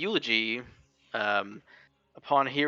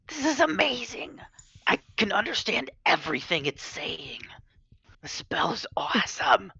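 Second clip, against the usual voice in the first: excited; 8 semitones higher than usual. Acted. Excited character voice.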